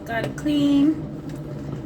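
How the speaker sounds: "Gotta clean" drawn out very slowly; slow repeat. Shown as a demonstration. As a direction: stretch "clean" like a weary chore. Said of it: "So I gotta clean too".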